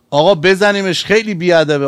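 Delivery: mildly hammed-up indignant appeal; indignant urging. Companions urge hitting the offender.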